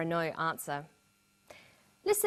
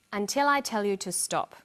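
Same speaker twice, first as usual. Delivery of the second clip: instruction ending with a fall on "stop". Shown as a demonstration. Teacher quoting the doctor's instruction, falling tone on "stop". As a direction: close it off, pitch dropping on "stop". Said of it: "Did you hear the falling tone at the end?".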